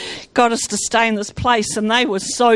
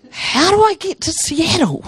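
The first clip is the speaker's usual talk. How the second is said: high, laughing bewilderment; amused plea to God; laughing question; 5 semitones higher than usual. Retold or imitated. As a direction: laugh through the puzzled question. Laughing at her own confusion.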